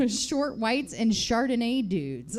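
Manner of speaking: giggling through the words; laughing. Real, not acted. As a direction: read it while cracking up. Laughing while reading theme.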